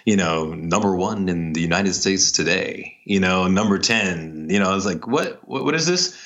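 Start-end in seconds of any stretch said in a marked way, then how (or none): 5.1-6.1 higher-pitched puzzled question; acted bafflement, pitched up; baffled viewer. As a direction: stumble over it in mock surprise.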